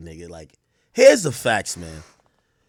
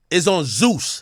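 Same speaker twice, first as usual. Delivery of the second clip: ordinary talk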